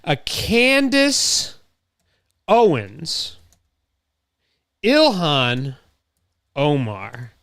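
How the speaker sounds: sing-song drawn-out announcing of the name. Pretend. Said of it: "let's do a salad".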